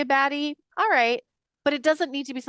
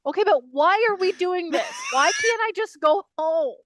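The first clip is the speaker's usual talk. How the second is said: higher, louder exasperated whine; mock exasperated plea; 8 semitones higher, 5 dB louder than usual. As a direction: plead to go home, hammed-up. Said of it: "I'm like".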